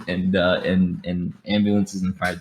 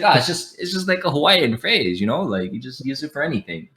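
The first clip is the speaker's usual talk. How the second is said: higher, casual island-guy reply; imitating Hawaiian friend; 6 semitones higher than usual. Voicing his Hawaiian friend explaining Dakine, higher and casual. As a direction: toss it off like it's obvious.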